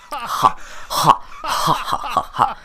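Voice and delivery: high, slow breathy ha ha ha; mock laugh. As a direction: fake a silly cartoon laugh. Mocking the game's laugh.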